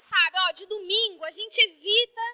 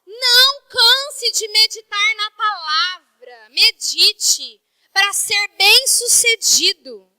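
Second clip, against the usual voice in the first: louder and much slower, word by word; slow paraphrase; 5 dB louder, much slower than usual. Acted. Preacher explaining the verse to the church, slow and firm. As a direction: drive each word home slowly.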